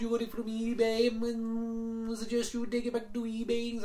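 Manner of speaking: imitated Indian accent. Agent voiced in phone story.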